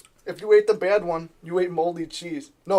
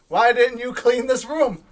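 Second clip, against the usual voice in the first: louder, slow accusing question; angry boss; 4 semitones higher, 4 dB louder, slower than usual. Retold or imitated. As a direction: scold like an annoyed boss. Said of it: "he calls me".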